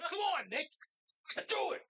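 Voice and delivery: mock cheer him on to act; impatient urging. Viewer urging Nick on to carnage, impatient urging.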